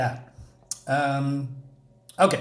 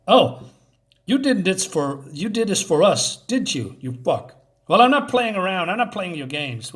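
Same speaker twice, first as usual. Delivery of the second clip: mildly angry accusation, higher and louder in bursts; acted confrontation; 4 semitones higher, 3 dB louder than usual. Sam accusing Walter over his games, mock angry outburst. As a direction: imitate someone fed up with being toyed with.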